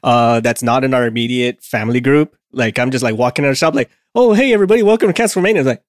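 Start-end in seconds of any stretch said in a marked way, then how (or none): 4.1-5.6 lightly acted show-host hello, pitched up; mock podcast greeting. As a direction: greet the listeners like a host, higher.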